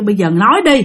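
lightly voiced shaman; stern questioning. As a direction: press the spirit to talk. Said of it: "Thì ổng kêu".

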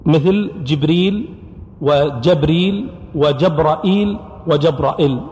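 جبريل then جبرائيل spoken slowly, each variant clear; variant pronunciations. Shown as a demonstration. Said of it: "اختلاف في نطق الكلمة".

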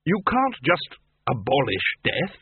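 high, emphatic character voice, slow at times; insistent debating wizard. Acted.

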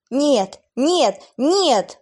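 loud high repeated no; desperate cry. Acted. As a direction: cry out in denial. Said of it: "повторяла она то ли в голос".

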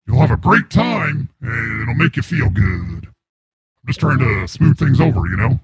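voice changer voice. Acted. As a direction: voice run through a changer. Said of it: "It's just a voice changer".

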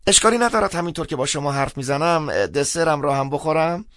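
high-pitched amused voice after a chuckle; chuckle, then carry on in a high, lively voice; laughing. A narrator's reading. Priest advises caller to wait out the century, laughing. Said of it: "خندید".

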